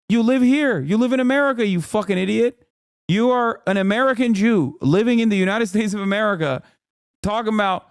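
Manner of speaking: high-pitched, incredulous scolding; exasperated rebuke. Acted. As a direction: lay into them, voice riding high. Exasperated rebuke of imagined pro-Israel American.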